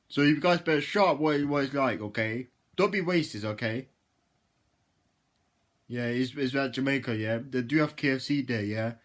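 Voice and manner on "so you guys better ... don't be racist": scolding. Pretend. Scolds imagined viewers.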